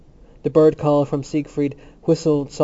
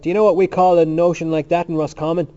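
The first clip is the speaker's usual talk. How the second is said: raised, loud challenge; crying out; 4 semitones higher, 7 dB louder, faster than usual. A narrator's reading. Temple tells what Roscommon calls limbo, crying out. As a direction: keep crying the question out excitedly. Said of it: "he cried".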